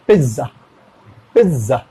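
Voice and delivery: पिज़्ज़ा as "pit-za" with the t barely heard; light t sound. Shown as a demonstration. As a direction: slip a faint t into पिज़्ज़ा. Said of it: "सुनाई जरूर जा रहा है लेकिन बहुत slow". (पिज़्ज़ा में बहुत हल्का ट)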